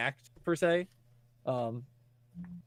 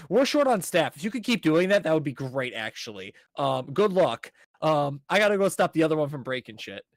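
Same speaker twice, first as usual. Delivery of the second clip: hammed-up busy manager rushing off; mock frazzled manager; 2 semitones higher, 5 dB louder than usual.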